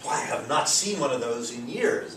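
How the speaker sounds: lightly acted surprised exclamation; a touch of surprise, lilting upward; mild surprise. Shown as a demonstration. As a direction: say it as a mildly surprised remark. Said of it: "you know, expressing surprise".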